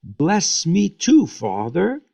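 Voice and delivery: high, slow mock plea on too; bitter cry. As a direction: plead like a wronged son, drawn out and high. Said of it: "He cried with a great and bitter cry".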